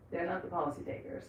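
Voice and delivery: soft trailing aside; quiet resigned repeat; muttered repeat. Acted. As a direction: drop to a near-mutter for the echo. Repeats it much softer.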